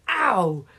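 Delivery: squealing. Acted. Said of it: "squealed vain Violet".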